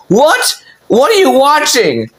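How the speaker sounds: high-pitched, alarmed questioning; shocked mom. Retold or imitated. Mom reacting to her kid's question, shocked. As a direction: imitate a mother's scandalized disbelief.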